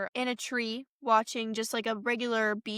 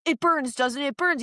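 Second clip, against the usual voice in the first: higher, louder gloating jab; gloating taunt; 4 semitones higher, 3 dB louder than usual. Retold or imitated. Boys gloating at Max over holy water, higher taunt. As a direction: rub it in with relish.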